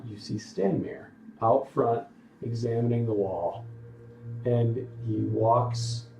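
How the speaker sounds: measured storytelling in separate phrases; game master narration. Acted. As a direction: describe the scene to your players, pausing between details. Game master sets scene.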